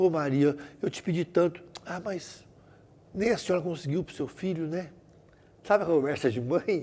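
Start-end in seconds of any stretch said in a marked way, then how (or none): 0.0-4.9 mock tearful crying. Retelling a kneeling mother praying to Mary: imitating a crying prayer. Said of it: "ajoelhada, chorando, falou assim".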